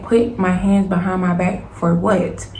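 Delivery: slow, word-by-word retold protest; indignant insistence. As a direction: spell out the objection slowly, indignantly. Repeats protest to police, slower.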